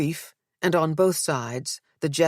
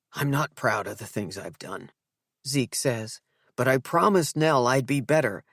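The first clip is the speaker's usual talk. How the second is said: tearful; 2 semitones lower than usual. Acted. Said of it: "Zeke breaks down".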